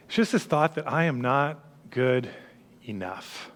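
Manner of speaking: quiet and low, voice falling off; hushed confession. Real, not acted. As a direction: let it sink to almost nothing. Names the felt thought.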